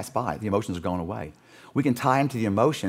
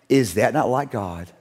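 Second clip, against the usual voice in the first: slow reflective; 4 semitones lower, slower than usual. Real, not acted. Preacher pondering the town's revival before the congregation, hushed. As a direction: ask it gently, in awe.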